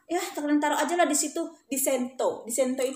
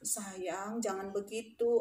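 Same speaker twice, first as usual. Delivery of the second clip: soft, low and soothing; tender reassurance; 4 semitones lower, 8 dB quieter, much slower than usual. Retold or imitated. Teacher comforting hugged pupil, tender reassurance. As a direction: hush them gently.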